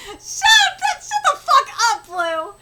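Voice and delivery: heated yell to shut someone up; angry silencing. Acted. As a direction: shout them down. Acted quarrel with Blue.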